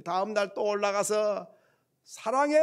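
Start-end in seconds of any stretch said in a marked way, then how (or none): 2.0-2.6 high, raised hilltop call; sing-out holler of affection. Retold or imitated. Child calls love to the mountain.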